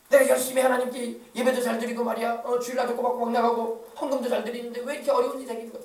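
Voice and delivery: mildly acted churchgoer's grievance; resentful complaining. Faithful attender protesting hardship to God, mild resentful complaint. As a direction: imitate someone grumbling that devotion went unrewarded. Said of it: "그런 소리 나고 있고".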